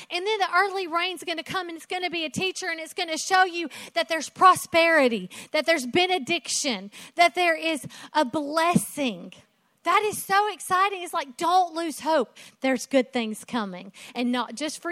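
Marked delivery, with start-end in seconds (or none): 0.1-9.3 high, quick promise of blessing; God's voice, promising. Retold or imitated. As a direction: tell them good is coming. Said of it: "And he's like".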